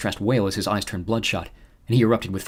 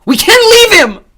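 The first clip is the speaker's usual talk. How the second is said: slow, high, loud wail; wailing scream; 16 dB louder, much slower than usual. A narrator's reading. Emma on the van floor wailing at Xander, loud and slow. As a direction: drag it out in despair. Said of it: "her wails becoming incoherent".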